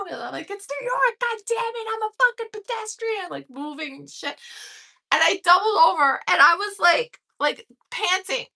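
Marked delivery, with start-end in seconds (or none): 0.5-3.3 high-pitched mock indignation; hammed-up indignant retort; indignant pedestrian. Retold yelling at taxis.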